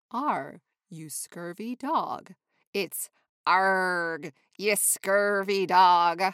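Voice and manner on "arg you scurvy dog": louder pirate growl with a rolled R. Shown as a demonstration. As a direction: say Arg like a salty pirate. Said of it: "I like to add extra R and a little E".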